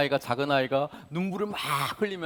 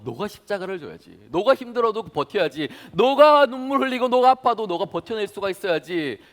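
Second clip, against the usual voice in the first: rising to loud, high exhortation; urging to endure; 6 semitones higher, 7 dB louder than usual. Acted. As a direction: push him to hold on to the end. God urging him to endure.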